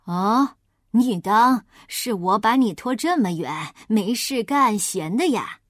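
a wolf hiding his plan; sly wolf. Acted. Wolf character voice.

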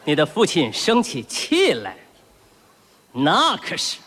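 measured, low-voiced paternal warning with leading pauses; pompous stern father. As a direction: lecture a toddler like a commanding officer. Pompous stern father lecturing baby son.

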